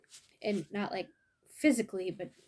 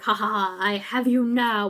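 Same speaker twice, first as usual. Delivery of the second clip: mommy bear; 7 dB louder than usual. Acted. Mommy bear gloating with her wet mop, lightly hammed up. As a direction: gloat as you catch them. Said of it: "She's like".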